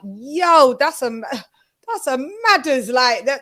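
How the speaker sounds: put-on Jamaican accent. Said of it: "Sometimes they're talking and you're like".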